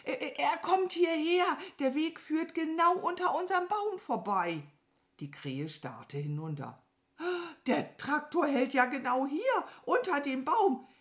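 high, stammering crow voice; alarmed crow. Acted. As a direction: report the danger in high panic. (aufgeregte, hohe Krähenstimme)

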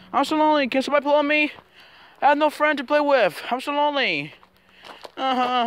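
high, pleading puppy voice; lonely dog voice. Pretend. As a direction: play a sad lonely dog begging. Kid voicing a lonely dog.

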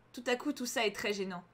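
ordinary delivery, nothing marked

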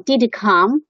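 "Did he come" heard as "di-di come"; weak form of HE. Shown as a demonstration. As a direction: drop the h and link "Did he come". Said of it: "这个弱读形式". ("Did he come"弱读连读，不读h)

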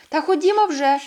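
put-on a child urging the others to go, impatient; impatient call. A narrator's reading. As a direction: hurry them along. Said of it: "повз потягнув санки".

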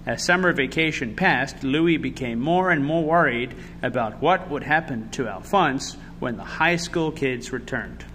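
put-on measured storytelling to children; picture-book narrator; story narration. A narrator's reading. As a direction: read the story aloud with expressive emphasis.

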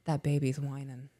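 put-on hushed child's whisper; whispered tattling. Child whispering to mom about a tantrum, hushed tattle. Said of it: "they go".

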